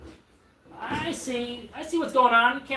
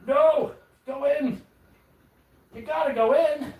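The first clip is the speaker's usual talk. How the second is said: frustrated yell; 6 semitones higher, 3 dB louder than usual. Real, not acted. Part won't fit during assembly.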